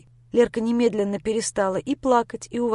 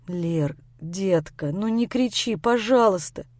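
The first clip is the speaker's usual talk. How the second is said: pleading; 2 semitones lower, slower than usual. Acted. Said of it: "Принялся я практически умолять".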